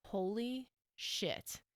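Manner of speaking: slow, dazed disbelief; stunned. Retold or imitated. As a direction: let it fall out slowly, stunned. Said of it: "And I was like".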